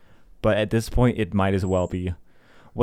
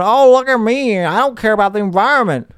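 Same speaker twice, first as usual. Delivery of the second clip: higher, louder mocking voice; mock show-off driver; 8 semitones higher, 5 dB louder than usual. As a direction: mimic a careless show-off. Mimics gas car lover.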